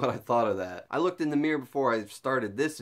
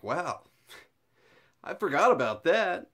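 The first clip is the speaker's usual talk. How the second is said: laughing surprise; 6 semitones higher than usual. Retold or imitated. Reacting to girlfriend's notebook ideas.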